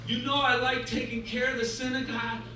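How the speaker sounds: mildly pleading janitor, rising at the end; pleading complaint. Acted. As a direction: plead your case to God with a touch of grievance.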